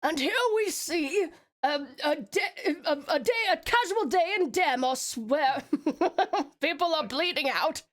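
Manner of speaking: hushed, slow nature documentary voice; David Attenborough. Pretend. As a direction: narrate like a wildlife film. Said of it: "I just tried".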